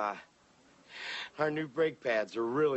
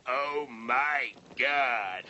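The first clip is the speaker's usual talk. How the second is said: stunned medic; 5 semitones lower, much slower than usual. Acted. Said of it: "the medic gets out and says".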